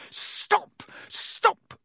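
frantic high yelling; yelled. A narrator's reading. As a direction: shout it in a panic. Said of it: "he yelled".

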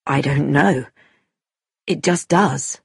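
understated, plain and low; simply said. A narrator's reading. Tommy answering the girl's challenge, simple and understated. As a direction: answer simply, without argument. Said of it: "Tommy said simply".

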